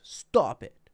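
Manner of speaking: firm, loud parental "Stop it"; authoritative parent. Shown as a demonstration. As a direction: scold like a parent to a kid. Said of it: "very authoritative tones".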